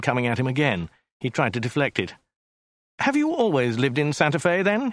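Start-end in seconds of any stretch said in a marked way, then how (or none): 3.0-4.9 mildly feeble question, pitched up at the end. A narrator's reading. Passenger trying to deflect the driver, mildly feeble. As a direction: make a weak attempt at small talk. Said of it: "he said, feebly".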